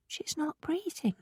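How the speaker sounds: stunned. A narrator's reading. Anna notices mother stopped breathing.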